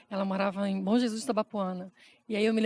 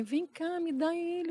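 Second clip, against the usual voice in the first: softer, higher imitated mother; gentle reassurance; 6 semitones higher, 4 dB quieter, slower than usual. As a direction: offer help gently, voice lifted and soft. Retold mother offers to help.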